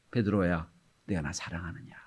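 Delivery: soft whispered call of Jesus; tender whisper. Acted. Jesus calls Peter by the shore, tender whisper. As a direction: whisper the question gently. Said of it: "부르세요".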